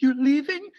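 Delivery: dad calling after him, alarmed and dragged out; mock worried dad. Son leaving the house, dad asks anxiously in mock voice. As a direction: stretch it like a worried Persian father. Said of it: "He says it like".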